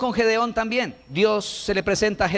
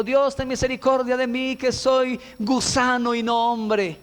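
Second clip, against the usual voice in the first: mock wailing prayer; 4 semitones higher than usual. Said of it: "levantó la voz y dijo".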